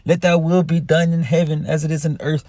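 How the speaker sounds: a hint of a churchy preacher's prayer tone; half-hearted imitation of a solemn prayer; mock pastor prayer. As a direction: lightly send up a pastor praying.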